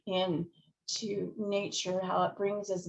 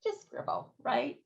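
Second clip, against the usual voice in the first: whispering; 6 semitones higher, 5 dB quieter than usual. Real, not acted. Soft aside.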